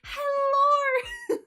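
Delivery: high, loud Australian "hellorr"; hammed-up Australian accent, vowel drawn out; mock Australian accent. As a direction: belt out an exaggerated Aussie greeting. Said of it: "record myself saying it".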